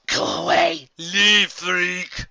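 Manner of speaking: loud, high angry yelling; snarling shout. A narrator's reading. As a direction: shout them away. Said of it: "they snarled and shouted".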